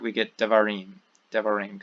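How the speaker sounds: devarim with the first vowel reduced to a quick e, stress on RIM; Hebrew devarim. Shown as a demonstration. Teacher showing vowel reduction to students, careful pronunciation. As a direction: rush past the first syllable of devarim. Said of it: "Hebrew wants to get to and stress this final syllable".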